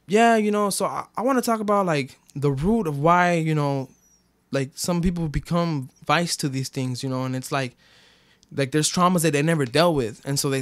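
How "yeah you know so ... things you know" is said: his own share, mocked. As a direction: lift the pitch like a sincere group talk. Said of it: "it'd be like".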